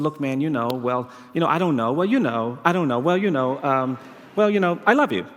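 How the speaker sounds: halting, reluctant mumbled lead-up to a confession; mock insincere. Boy forced by his mother to say he loves a stranger, insincere. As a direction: stall awkwardly, then blurt it without meaning it. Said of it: "as insincerely as I possibly could".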